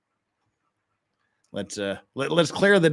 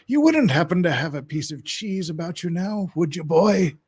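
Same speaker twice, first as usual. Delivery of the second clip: pirate voice; 3 semitones higher than usual. Acted. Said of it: "Treasure Island pirate voice".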